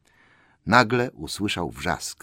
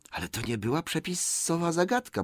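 high, softer creature whine; protesting Gollum; 8 semitones higher, 6 dB quieter than usual. Acted. Gollum disputes the riddle, whining high. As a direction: object in a whiny creature hiss.

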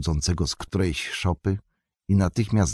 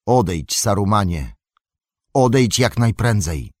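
louder, steady command; calm authority sending him away; firm hobbit leader; 2 semitones higher, 4 dB louder than usual. Acted. Frodo orders Saruman away.

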